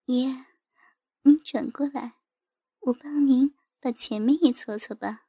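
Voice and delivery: softly voiced, a little under the narration; 轻声细语. A narrator's reading. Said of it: "轻轻地说道". (轻轻地在耳边说)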